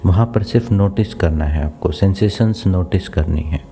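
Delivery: calm body-scan guidance with long pauses; even, unhurried meditation instructions; guided meditation. Acted. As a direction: steer attention gently, leaving room to feel.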